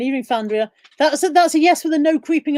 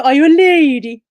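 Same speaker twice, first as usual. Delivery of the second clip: mock questioning; 3 semitones higher, 8 dB louder than usual.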